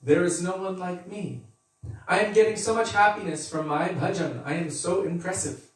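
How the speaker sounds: lightly hammed-up braggart; boastful devotee. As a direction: puff up like a smug devotee. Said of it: "he thinks".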